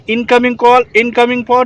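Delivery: calm, steady call-out; steady radio call. Shown as a demonstration. Trainer showing the steady way to answer, calm call. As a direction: hold still and speak it evenly. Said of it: "स्थिर से आपको यहाँ पे आपको जवाब देना है".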